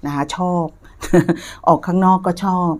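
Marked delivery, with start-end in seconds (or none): 1.0-1.6 brief light laugh; a small chuckle between phrases; short chuckle. Real, not acted. Reader telling viewers they will enjoy work, short chuckle. Reader amused mid-reading.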